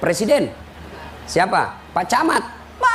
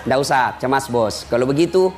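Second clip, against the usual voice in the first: low, easygoing devil; reassuring devil; 3 semitones lower than usual. Acted. Devil tells the dying man not to worry, coaxing. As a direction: coax casually, as if it's no trouble. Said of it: "Dia bilang iblis".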